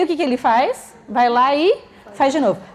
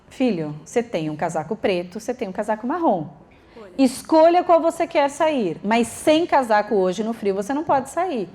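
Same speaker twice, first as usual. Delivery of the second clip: firm and respectful. Shown as a demonstration. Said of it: "eu tô falando de um jeito respeitoso".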